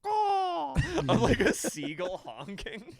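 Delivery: squeaky high laughing through the words. Real, not acted. Friend laughing about the nightlight's seagull, high laugh. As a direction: crack up while describing it.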